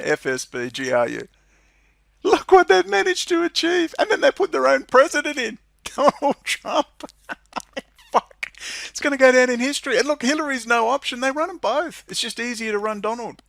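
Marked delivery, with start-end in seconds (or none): 2.2-13.4 high, loud laughing disbelief. Real, not acted. Vlogger to viewers, laughing high and loud in disbelief. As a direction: cackle at how absurd it all is. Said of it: "I'm laughing because it's so absurd".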